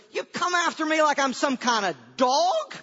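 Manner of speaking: hammed-up outraged champion; taunting giant. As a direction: bellow a challenge, as an acted giant. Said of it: "and the giant goes".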